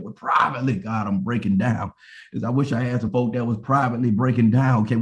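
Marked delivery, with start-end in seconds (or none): 0.0-3.5 falling to a lower, subdued prayer; subdued confession. Acted. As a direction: let it sink low as you admit it to God. Confessing breakdown to God in prayer.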